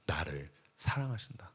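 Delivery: soft, low whispered refrain; hushed whisper. Real, not acted. Preacher revealing love's source, hushed whisper. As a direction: let the words drop to a whisper.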